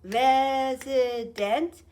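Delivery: "Resident" loud and slow, res, i, dent; split into syllables. Shown as a demonstration. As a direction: draw "Resident" out in three separate beats. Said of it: "How many syllables?".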